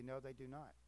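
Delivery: firm emphatic no. Real, not acted. Preacher to congregation, emphatic denial. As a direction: stress the not, firm and final. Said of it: "I'm gonna say emphatically".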